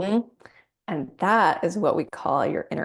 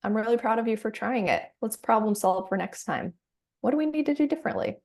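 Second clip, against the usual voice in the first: higher, fast encouraging reassurance; kind mama bear; 4 semitones higher, faster than usual. Acted. Coach voicing mama bear to a struggling client: bright, quick reassurance. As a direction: cheer her on after a failed try. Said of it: "And mama bear says".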